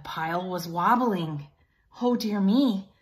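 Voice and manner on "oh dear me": higher, louder warning call; mock alarmed shout up to Pig; Trevor crying out. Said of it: "good Trevor did cry".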